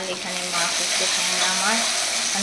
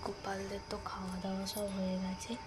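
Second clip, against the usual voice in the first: whisper; 16 dB quieter than usual. Real, not acted. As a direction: breathe the words without voice. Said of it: "আমি এত আস্তে কথা বলছি". (ফিসফিস করে)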